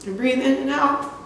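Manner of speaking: trying to hold it together; struggling to cope. Acted. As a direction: push on through welling emotion. Monologue ends, struggling to keep going.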